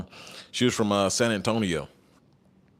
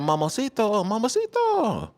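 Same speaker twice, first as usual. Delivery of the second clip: high, slow, flirty "mamacito"; flirty drawn-out mamacito; 11 semitones higher than usual. Pretend. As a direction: stretch "mamacito" like a tease. Flirty Spanish word drawn out.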